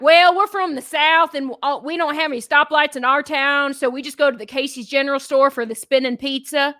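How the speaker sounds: folksy mock Southern accent. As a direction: imitate small-town Southern folks. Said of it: "Other people would be like".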